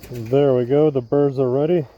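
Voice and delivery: muffled behind a respirator; through a face mask. Real, not acted. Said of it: "Sorry if it sounds muffled, I have my mask on".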